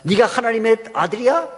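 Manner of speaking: lightly mocking challenge with rising questions; acted taunting. Satan belittling God's sons and daughters, lightly acted mockery. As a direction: sneer a little, as the boasting devil. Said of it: "그러면서 우리를 조롱해요".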